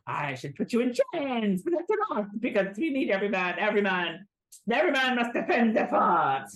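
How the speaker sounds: lightly hammed-up officer's proclamation; mock heroic order, building to the end; Pepe Le Pew. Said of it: "Pepe Le Pew is like".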